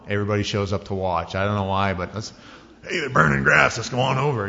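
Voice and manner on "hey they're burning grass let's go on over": louder, higher excited neighbor; a hint of a curious neighbor; eager neighbor. Neighbors rushing to watch.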